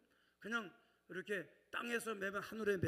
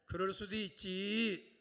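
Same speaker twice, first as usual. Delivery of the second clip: forgiving shrug; 5 dB louder, slower than usual. Shown as a demonstration. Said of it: "빨리 옆 사람한테".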